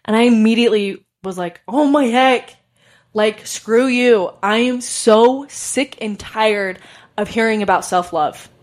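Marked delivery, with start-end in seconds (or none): 1.7-8.5 mildly exasperated, drawn-out protest; retold exasperation. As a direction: re-enact being fed up, dragging the words a little. Acts out her exasperated reply to higher self.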